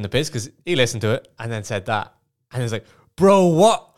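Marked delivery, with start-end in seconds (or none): 3.2-3.9 high, loud, laughing outburst; mock shocked exclamation. Groom retelling his mate's reply to the prank, loud mock shock. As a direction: imitate a friend's loud disbelief.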